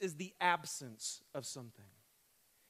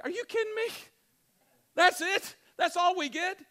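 much higher, let-down are you kidding me; higher, louder mock letdown; disappointed disbelief; 12 semitones higher, 10 dB louder than usual. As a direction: voice the crestfallen angels peering down. Angels disappointed at shepherds.

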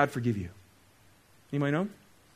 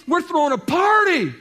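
shouting father; 11 semitones higher, 7 dB louder than usual. Acted. First take of the line.

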